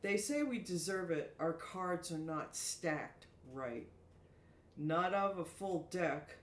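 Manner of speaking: slow, measured poetic reading with pauses; soliloquy recital. Acted. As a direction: recite your own verse, drawing out each phrase. Reads her own soliloquy aloud.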